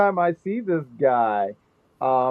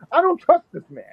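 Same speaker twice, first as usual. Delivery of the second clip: much higher and louder, playful alarm; mock outrage; 13 semitones higher, 5 dB louder than usual. Real, not acted. Ranting to chat about Luca, high and loud in mock alarm. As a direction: shriek your distrust in fun.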